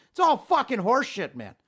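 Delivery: real heated rant; worked up. Real, not acted. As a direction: write it all off in a huff. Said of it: "getting so worked up".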